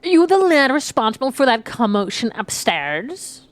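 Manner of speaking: tentative quest-giver voice with a big rising question; lilting question in a half-found character voice; uncertain character voice. Acted. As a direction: try out a character voice, unsure of it. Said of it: "I don't know what this fucking voice is".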